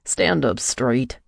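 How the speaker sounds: slow, firm scolding order. A narrator's reading. Michael scolds her on the club stairs. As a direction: scold her slowly like a stern coach. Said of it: "Michael scolded".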